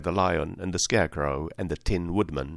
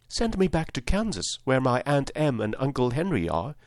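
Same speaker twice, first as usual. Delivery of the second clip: put-on earnest little-girl plea, higher voice; 5 semitones higher than usual. Girl asks Oz to send her home, mildly earnest. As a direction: plead simply and sincerely, lightly voiced child. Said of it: "she answered earnestly".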